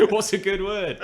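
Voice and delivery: high, loud cartoon Australian; Australian accent. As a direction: quote a cartoon Australian through laughter. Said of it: "I was thinking of that Simpsons".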